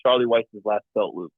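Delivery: muffled, as if through a hand; speaking through a covered mouth. Real, not acted. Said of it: "That was kinda muffled".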